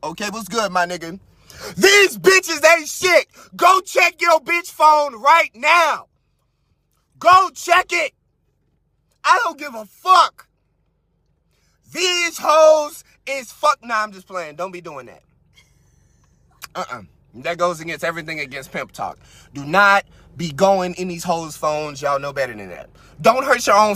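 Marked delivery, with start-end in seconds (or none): 1.8-13.8 slow mock shout; mock furious command; hammed-up rant. 13.8-22.9 calm mock advice; hushed pimp talk; softer lower backtrack. Backing off with mock pimp wisdom.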